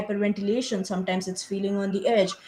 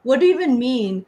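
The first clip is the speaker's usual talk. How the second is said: a louder, higher startled "what?" then puzzled asking; baffled what; 4 semitones higher, 4 dB louder than usual. Retold or imitated. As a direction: caught off guard, demanding to know what it means. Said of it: "And I was like".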